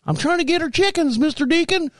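high-pitched imitation of a young kid; whining child. Kid explaining himself to the neighbor, high childlike voice. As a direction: answer in a high little-boy voice.

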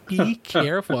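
exaggeratedly articulated mock admonishment; over-enunciating. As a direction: imitate a scolder enunciating each word. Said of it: "over enunciating everything".

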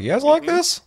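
mock company voice. Company mocking its players.

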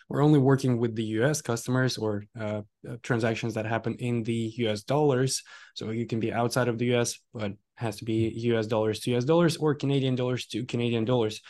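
hoarse, worn-out voice; losing my voice. Real, not acted. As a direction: speak with a tired, hoarse voice. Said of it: "I'm losing my voice at this point".

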